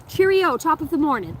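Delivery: chirpy faux British sign-off; mock British. To the insulting chatter, mock British goodbye.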